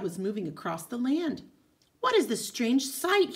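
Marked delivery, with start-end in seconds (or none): 2.0-3.4 wondering. Acted. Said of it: "he wondered".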